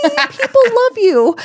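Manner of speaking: high, slow, emphatic retold comfort; retold reassurance. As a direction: insist on it, stretched out high. Reassuring the crying patient, retold.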